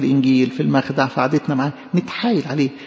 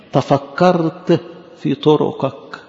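very slow recitation; much slower than usual. Acted. Quoting the verse again, very slowly.

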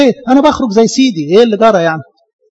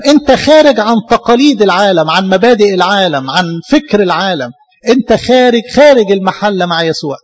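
forceful preaching. Acted. Jesus' answer preached with force.

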